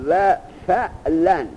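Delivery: slow, stretched-out recitation of فعلن; drawn-out reading. Shown as a demonstration. Teacher reads the next pattern فعلن slowly for the student.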